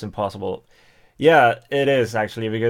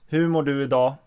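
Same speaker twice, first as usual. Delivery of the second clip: quicker, plainer own-dialect Swedish; 3 semitones higher, faster than usual. Shown as a demonstration. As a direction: say it in your usual non-northern Swedish. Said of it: "in my dialect".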